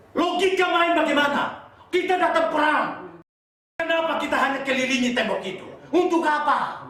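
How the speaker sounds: high, forceful rhetorical protest; incredulous preaching. Acted. Preacher voicing doubt about circling Jericho, incredulous. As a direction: challenge the order as if baffled.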